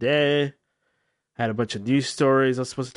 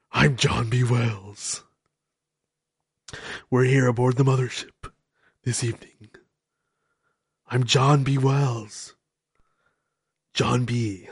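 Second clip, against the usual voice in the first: hammy late-night radio announcer, badly done; a self-mocking impression of a smooth talk-radio host; John B. Wells. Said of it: "That was a terrible impersonation".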